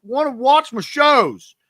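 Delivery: put-on high, slow childish whine; whiny kid voice. Kid whining to grandparents, high and slow. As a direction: whine it like a kid who wants his TV. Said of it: "I was like".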